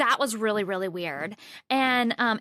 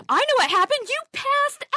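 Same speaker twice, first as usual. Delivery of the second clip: teasing; 4 dB louder than usual. Retold or imitated. Guy teasing his friend.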